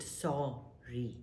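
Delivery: a quiet sorry; soft sorry. Shown as a demonstration. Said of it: "Practice it".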